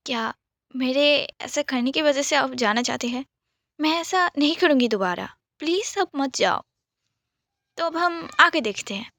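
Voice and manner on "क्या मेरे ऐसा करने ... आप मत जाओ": mild tearful pleading; a touch of sobbing, begging him to stay; crying plea. Acted. Daisy mildly tearful, begging Rudra not to leave. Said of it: "बहुत रोते-रोते बोल रही थी".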